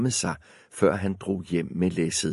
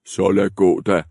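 grudging troll; 5 dB louder than usual. Acted. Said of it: "sagde trolden".

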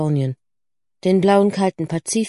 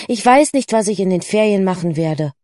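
frustrated; 4 dB louder than usual. Acted. Lucy not knowing her holiday plans, frustrated. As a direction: repeat it with rising exasperation, then subside. Lucy repeats it more forcefully.

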